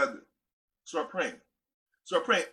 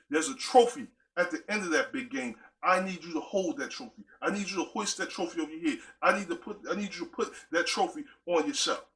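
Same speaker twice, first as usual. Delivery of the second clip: voice of God; 2 semitones higher than usual. Retold or imitated. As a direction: speak as God coaching his player before the big game. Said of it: "You know what he said to me?".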